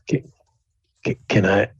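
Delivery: a hint of a sheepish beaten bully, rising; pleading to leave. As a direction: plead meekly to be let go.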